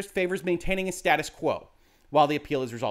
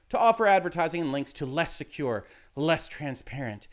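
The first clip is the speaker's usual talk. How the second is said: breathless voice; 3 semitones lower than usual. Shown as a demonstration. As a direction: read it as if it leaves you breathless. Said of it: "I use the breathless voice there".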